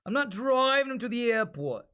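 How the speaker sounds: quick Brooklyn accent demo. Shown as a demonstration. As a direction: toss it off like a New York cabbie. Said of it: "give me an example of a Brooklyn accent".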